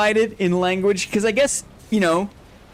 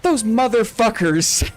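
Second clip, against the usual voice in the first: higher, louder mock outrage; mock furious mom swearing; outraged mom; 4 semitones higher, 4 dB louder, slower than usual. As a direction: shout it like an indignant mom betrayed by AI. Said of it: "She's like".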